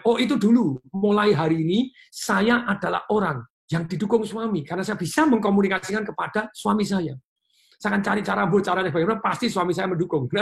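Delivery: voicing a wife declaring she is supported; upbeat, determined self-talk; confident new declaration. Coach acting out an audience member's new affirmation, upbeat. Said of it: "Anda mulai".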